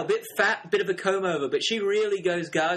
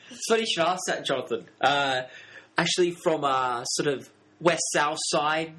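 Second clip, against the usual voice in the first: put-on English accent. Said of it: "my English cousin".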